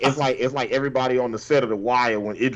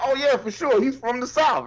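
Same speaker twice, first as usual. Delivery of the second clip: mock certainty; 11 semitones higher than usual. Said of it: "you be like".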